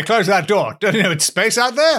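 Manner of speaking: laughing. Pretend. Mock Victorian man, laughing.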